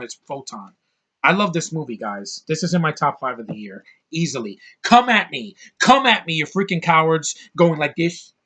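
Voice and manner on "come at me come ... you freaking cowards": shouted challenge, pitch pushed way up; defiant yelling at critics; loud taunt. Real, not acted. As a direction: dare the haters to come at you, yelling. Taunting critics of his opinion.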